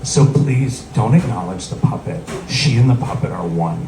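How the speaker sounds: solemn imitation of a protective cousin; very serious. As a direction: make a grave, earnest request. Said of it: "she gets very serious".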